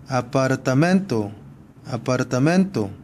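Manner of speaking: 아파르타멘토 with a firm 멘; stress on 멘. Shown as a demonstration. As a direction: lean on the second-last syllable 멘 in 아파르타멘토. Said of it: "끝에서 두 번째". (아파르타멘토의 '멘'에 강세)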